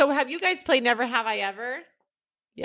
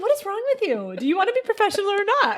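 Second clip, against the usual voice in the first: higher scolding mom voice; 8 semitones higher, faster than usual. Retold or imitated. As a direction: scold like a fed-up mother. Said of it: "She'd be like".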